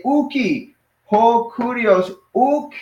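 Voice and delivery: high, drawn-out "ho kurios" between emphatic "Uki" and "uk"; emphatic denial. Shown as a demonstration. Teacher shows one way to say no, emphatic. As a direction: deny it insistently, high on "Uki" and "uk". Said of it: "you wanna say it really emphatically".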